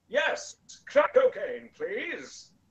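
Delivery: very high-pitched announcer voice. Acting out Santa in a drug den sketch idea: Santa in Peter Dickson voice. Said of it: "That's the voice I decided to use for Santa Claus".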